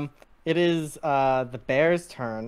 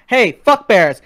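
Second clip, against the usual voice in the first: louder heckling shout; mock yell; 7 semitones higher, 12 dB louder, slower than usual. Two guys heckling the bear, loud mock shout. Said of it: "yelling at you guys".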